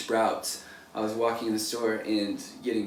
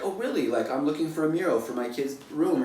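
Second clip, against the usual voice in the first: pleasantly surprised; 4 semitones higher than usual. Retold or imitated. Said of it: "she'll be like".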